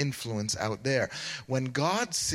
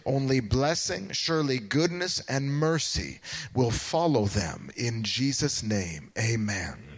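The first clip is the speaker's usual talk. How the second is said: congregational prayer. Real, not acted. Pastor praying protection over the parade team, earnest prayer. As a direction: declare a blessing with steady conviction.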